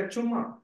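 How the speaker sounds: "Chumma" said the Tamil way, with a doubled m: CHUM-ma; Tamil word. Shown as a demonstration. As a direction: say "Chumma" as a Tamil speaker would, stress on the first syllable. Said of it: "In Tamil, we should say".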